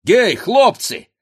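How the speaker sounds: very high, loud hail; high ringing summons; calling out. A narrator's reading. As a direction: holler to the lads across the street. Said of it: "кричал он".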